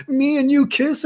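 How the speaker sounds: high-pitched imitation of a startled girl; mock incredulous. Drunk girl answers a kiss offer, mock incredulous. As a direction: squeal the question in disbelief, hammed-up.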